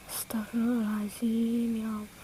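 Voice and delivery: breathless whispered astagfirullah; whispered prayer. Real, not acted. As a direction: gasp it under your breath. Shocked aside. (bisikan istighfar kaget)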